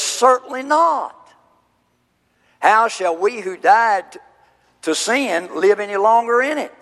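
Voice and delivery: Paul's emphatic no, read out with force; emphatic denial. Retold or imitated. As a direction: reject the idea outright, then reason. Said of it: "The answer that Paul gives is emphatic".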